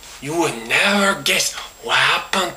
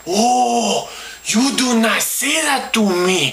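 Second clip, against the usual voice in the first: indignant; 3 semitones higher than usual. Retold or imitated. Indignant retort after rebuff.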